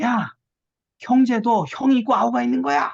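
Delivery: angry shout, high and loud.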